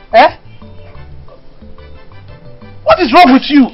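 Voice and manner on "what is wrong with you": louder, pressing demand; demanding repeat. Acted. Mother asking her sleepy daughter again, louder demand. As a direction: press her hard for an answer.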